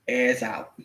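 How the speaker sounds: "Ass out" whispered, breathless and soft; whispered repeat. Shown as a demonstration.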